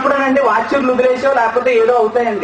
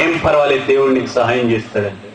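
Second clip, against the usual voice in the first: low, altered pastor's voice; mock pastoral reassurance, pitched well down; put-on pastor voice; 8 semitones lower than usual. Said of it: "ఇది mimicry".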